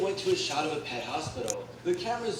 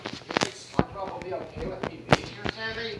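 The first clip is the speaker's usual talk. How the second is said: calm voice; 5 semitones higher than usual. A narrator's reading. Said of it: "Squidward said in a calm voice".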